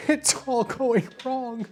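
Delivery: high, slow, wailing lament; mock despair. Losing a pen, wailing high and slow in mock despair. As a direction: wail it like a tragic cartoon figure.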